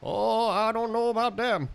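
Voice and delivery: lightly put-on Maine voice; Maine accent. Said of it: "I'm not good at accents anyways".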